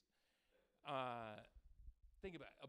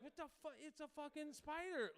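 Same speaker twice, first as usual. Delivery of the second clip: mock exasperated; 13 semitones higher than usual. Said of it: "and you're like".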